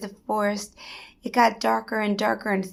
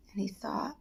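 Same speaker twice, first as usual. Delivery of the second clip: hushed; 10 dB quieter than usual. A narrator's reading. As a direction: let it sink into silence. Pondering told in hush.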